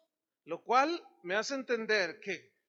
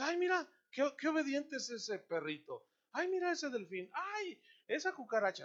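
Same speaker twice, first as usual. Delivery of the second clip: mock gushing admiration; 5 semitones higher than usual. Imitating people gushing over animals.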